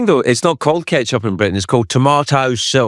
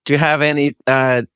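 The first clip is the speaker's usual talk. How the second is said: lightly voiced Southern US accent with a drawled ending; a Brit giving Southern a go; attempted Southern accent; 5 semitones higher than usual. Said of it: "There you go".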